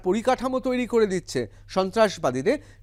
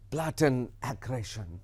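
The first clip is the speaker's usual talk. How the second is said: mocking; 8 semitones lower, 7 dB quieter, much slower than usual. Re-reads Pakistan's phrase to mock it.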